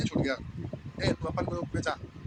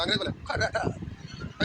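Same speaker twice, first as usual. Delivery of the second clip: imitating English accent. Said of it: "ऐसे बोलता है ना".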